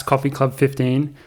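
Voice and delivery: slow, each word set apart; spelled-out promo code. Shown as a demonstration. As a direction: read the code out carefully. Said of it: "all caps".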